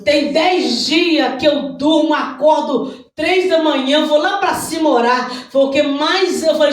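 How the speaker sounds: full-force, insistent pulpit cry; fervent preaching. Real, not acted. Preacher showing the church the negative report, fervent preaching. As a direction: hammer each repeated word to the congregation.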